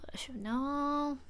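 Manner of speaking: slow, soft whisper to self. Real, not acted. Streamer racking memory, slow whisper. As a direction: whisper it while thinking.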